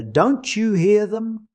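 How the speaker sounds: high, drawn-out anguished question; on the point of crying out. A narrator's reading. Man nearly crying at the bereaved woman, anguished. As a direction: hold back a cry, slow and high. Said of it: "on the point of crying at her".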